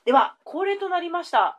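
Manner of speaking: announcer voice. Acted. Quiz corner announcement.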